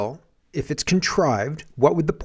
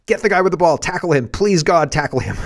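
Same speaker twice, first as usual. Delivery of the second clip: mock yell, raised a little; half-strength plea, as if screaming from the sidelines; imitated screaming; 3 semitones higher, 3 dB louder than usual. Streamer voices James Lindsay urging a tackle, mock screaming. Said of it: "He's screaming".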